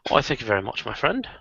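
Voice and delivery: softly spoken put-on British accent; polite thanks in a British accent. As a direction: play the courteous Brit. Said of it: "I love your British accent".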